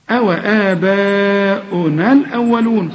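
أو آباؤنا الأولون recited slowly; slow recited verse; slow recitation. Shown as a demonstration. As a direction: chant it as in tajweed. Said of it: "خد بالك المد".

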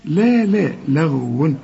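"لا لا لغو" slow, every lam thin, only the ghayn heavy; light lam. Shown as a demonstration. Teacher drilling the student, light lam. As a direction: repeat "لا" lightly, then the same thin l in "لغو". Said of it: "طب ما هي اللام مرققة".

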